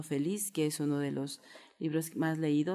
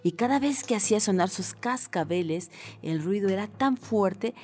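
put-on measured, expressive children's story reading; storyteller's lilt; storytelling narration; 5 dB louder than usual. A narrator's reading. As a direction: read a tale to children, stretching key phrases.

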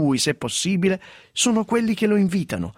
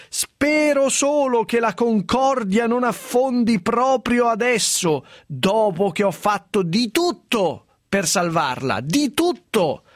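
town crier; 5 semitones higher, slower than usual. Retold or imitated. Reading Schettino's quote solemnly.

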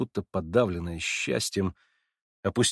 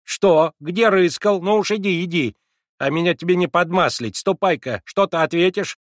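put-on high, loud bossy old servant voice; commanding; 8 semitones higher, 6 dB louder than usual. A narrator's reading. Servant Mavra scolding Alyosha, commanding and loud. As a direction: lord it over the boy from the doorway. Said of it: "как власть имеющая".

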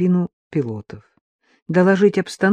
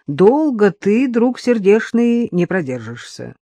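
teasing; 4 semitones higher, 3 dB louder, slower than usual. Acted. Older pilot teasing young colleague.

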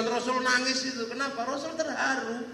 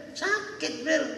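mock heartache; 4 semitones higher than usual. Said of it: "Aku kan terharu".

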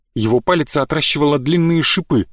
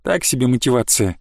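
sighing; 3 semitones lower than usual. Acted. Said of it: "вздохнул я".

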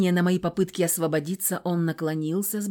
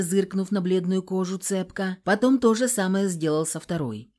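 ordinary delivery

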